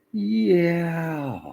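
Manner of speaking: high, loud drawn-out yelp; hammed-up howl of pain; theatrical yell. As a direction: yell it long and high, overdoing it. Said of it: "that was a theatrical yell".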